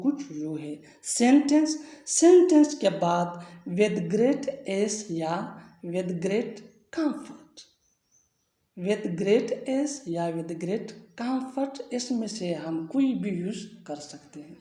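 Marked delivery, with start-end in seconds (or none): 3.7-11.7 each word laid out very slowly; slow dictation. Shown as a demonstration. Teacher dictating the structure to the class, very slow. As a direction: spell the phrase out word by word for learners. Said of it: "teacher dictates the English structure".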